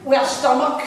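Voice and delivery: chatty Coatbridge caller voice; Coatbridge accent. Retold or imitated. Caller telling reception about Gillian, Coatbridge accent. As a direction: imitate a Coatbridge woman explaining. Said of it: "in her best Coatbridge accent".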